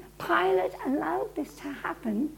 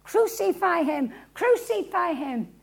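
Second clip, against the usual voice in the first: mild mock crowd shout; 3 semitones higher than usual. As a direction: chant it like a crowd, held back. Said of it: "who are shouting".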